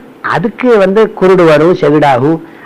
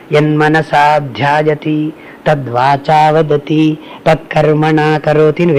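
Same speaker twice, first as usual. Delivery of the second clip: very slow, measured verse; slow Vedic recitation; slower than usual. Shown as a demonstration. Swami quotes the Veda to listeners, slow and measured. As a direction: intone the Vedic line slowly. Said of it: "quotes the Veda".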